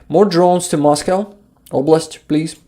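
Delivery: put-on please with a light Ukrainian accent. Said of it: "I told it, uh, with Ukrainian accent".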